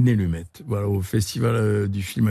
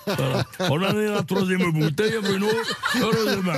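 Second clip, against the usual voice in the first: put-on giggling through a light southwest accent, pitched up; laughing in accent; 8 semitones higher than usual. Actor jokes about the third bottle, laughing in a southwest accent. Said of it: "je perds l'accent".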